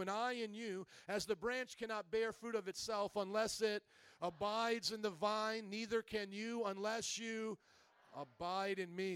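measured, emphatic Bible reading; scripture reading. Acted. Pastor reads Jesus' words to the congregation, scripture reading. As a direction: read the verse out to the congregation.

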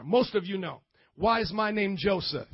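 ordinary delivery

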